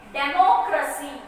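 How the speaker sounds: democracy with MO leaned on; teacher's model democracy, stressed on MO; stress on vowel. Shown as a demonstration. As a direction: hit the O in democracy. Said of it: "we are stressing with the vowels".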